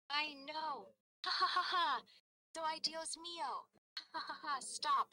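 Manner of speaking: high, loud laughter breaking into words; acted family laughing fit; laughing till breathless. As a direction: laugh so hard you can't breathe. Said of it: "can you just make the sound for me".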